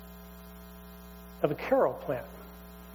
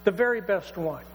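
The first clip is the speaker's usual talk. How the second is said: joyful father's orders. Acted. Father calls to servants joyfully.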